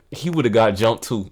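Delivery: shouting. Real, not acted. Laughing exclaim.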